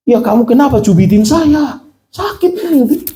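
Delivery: high-pitched complaint, rising sharply; retold pained protest. Husband complaining to wife who pinched him, pained protest.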